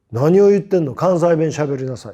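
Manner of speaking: loud, pointed question like a Kansai teacher; teacher's challenge. Retold or imitated. Kansai teacher demands to know why he hides his dialect, loud. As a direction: press him like a stern teacher, loud.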